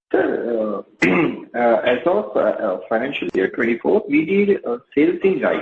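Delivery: muffled, distant phone line; talking from across the room on speakerphone. Real, not acted. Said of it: "you are sounding a lot muffled".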